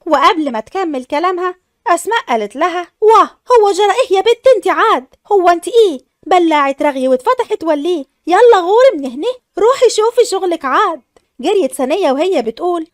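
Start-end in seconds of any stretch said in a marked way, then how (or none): 3.0-11.0 raised voice ordering the maid out; angry scolding. Acted. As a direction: shoo her off in a temper. Asmaa drives the maid away.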